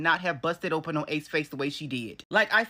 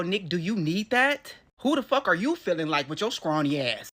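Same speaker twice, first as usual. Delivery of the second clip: mock scolding. Real, not acted. Scolding Nick for puffing his chest, slow and scornful. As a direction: talk down to him. Mocking Nick's bravado.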